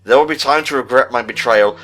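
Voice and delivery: measured, even read-aloud of a diary entry; reading a report. Acted. Reading the secret report aloud to his co-host, measured and even. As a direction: read it like a scholar's private log.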